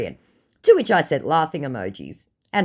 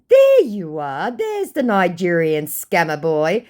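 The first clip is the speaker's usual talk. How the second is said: triumphant gotcha; 4 semitones higher, 5 dB louder, slower than usual. Retold or imitated. Triumphant retort.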